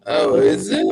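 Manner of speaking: loud, garbled robotic audio; real digital distortion. Real, not acted. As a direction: question through a glitching connection. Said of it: "we're your robot voice".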